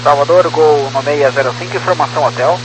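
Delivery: tinny radio transmission; crackly military radio. Real, not acted. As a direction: voice through a cockpit radio. Pilot over ATC radio.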